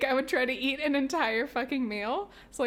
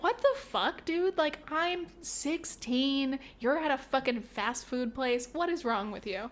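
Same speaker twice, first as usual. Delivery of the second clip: outraged disbelief; 3 semitones higher, slower than usual. Retold or imitated. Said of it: "And I'm like".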